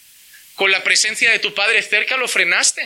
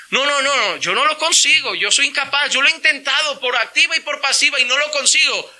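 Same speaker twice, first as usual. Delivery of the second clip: higher, pleading mock excuse; imitating a self-pitying believer pleading he can't stop; whiny excuse-maker; 4 semitones higher than usual. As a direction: whine like a man who won't quit. Mocking a man's excuses.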